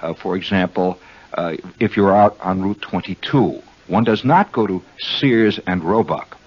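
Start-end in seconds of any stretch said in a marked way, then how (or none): 5.0-6.4 proper, measured "Sears and Roebuck"; formal full name. Shown as a demonstration. Host shows friends how not to name the store, formal and proper. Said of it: "One goes to Sears".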